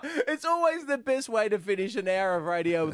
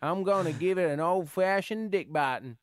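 put-on mild southern accent. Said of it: "how's your southern accent there".

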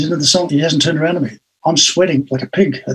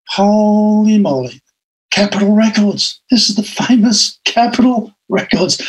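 delighted disbelief; 5 semitones higher than usual. Real, not acted.

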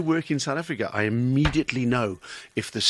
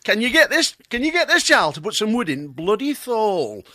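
put-on Lancashire accent; 7 semitones higher than usual. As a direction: repeat it in exaggerated Lancashire dialect. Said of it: "That's how they speak".

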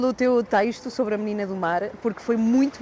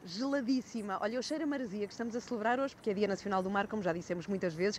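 rushed, softer freezing chatter; in ice cold water; 3 semitones lower, 4 dB quieter than usual. Real, not acted. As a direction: talk fast to forget the cold. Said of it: "eu estou a falar assim rápido e sem parar porque eu estou congelada". (fala rápida de quem está congelada)

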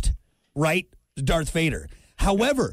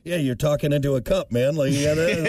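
echoey voice through a cup; talking into a cup; 4 semitones lower than usual. Real, not acted. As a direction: talk into a cup. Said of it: "You sound like a space cadet".

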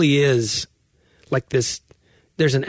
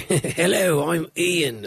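put-on British accent; 5 semitones higher, much slower than usual. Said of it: "angry British guy".

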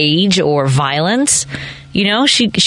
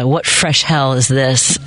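quoting Dorothy Parker; 5 semitones lower, slower than usual. Retold or imitated. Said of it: "her quote is".

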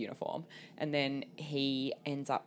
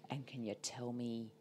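pointed questioning; 7 dB quieter than usual. Retold or imitated. Acting out an officer's pointed questioning.

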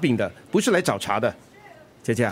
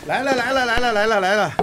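cheerful call; 8 semitones higher than usual. Acted. Father brings food cheerfully.

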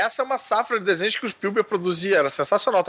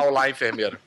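catchphrase quote; 6 semitones lower than usual. Retold or imitated. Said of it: "não falar".

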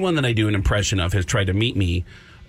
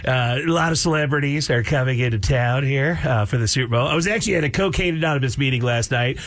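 lightly voiced Tom Arnold, halting; a hint of Tom Arnold gossiping. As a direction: ramble as Tom Arnold on air. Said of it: "I will do full-blown Tom Arnold".

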